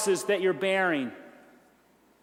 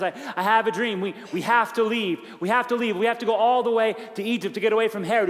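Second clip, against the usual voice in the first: fast, rising alarm, near a shout; panicked; faster than usual. Retold or imitated. Joseph telling Mary they must flee, panicked and rushed. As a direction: blurt it out in a rush of fear. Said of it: "he's in a panic sweat".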